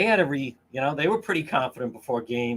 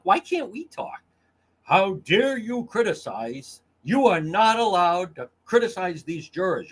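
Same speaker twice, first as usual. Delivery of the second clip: mock outrage; 4 semitones higher than usual. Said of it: "the hate I'm coming under".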